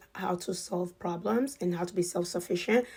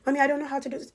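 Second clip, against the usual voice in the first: put-on child's whine; 7 semitones higher, 3 dB louder, much faster than usual. Mom and child voiced.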